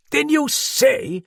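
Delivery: loud, high, slow exclamation; high-pitched astonished challenge; incredulous cry. A narrator's reading. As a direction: cry out, drawing out the words. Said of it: "Sir John cried".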